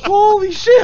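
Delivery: loud, high burst of relief; shocked yell. Real, not acted. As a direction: still shaken, shout it out. Still reeling from the scare.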